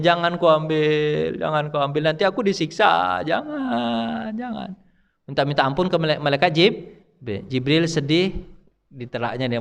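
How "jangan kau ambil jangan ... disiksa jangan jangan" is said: slow, pleading voice of the earth. Retold or imitated. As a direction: earth begging not to be taken. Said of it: "Minta ampun deh". (bumi memohon, lambat dan memelas)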